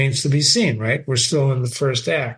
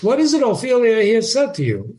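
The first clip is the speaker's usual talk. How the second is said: higher, quick questioning father; prying father; 7 semitones higher than usual. Acted. Polonius pressing Ophelia about Hamlet, prying father. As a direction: press the daughter for the story.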